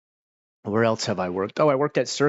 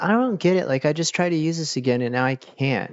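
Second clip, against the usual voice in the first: mock baffled caller; 6 semitones higher than usual. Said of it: "they'd be like".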